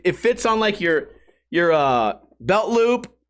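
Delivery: ordinary delivery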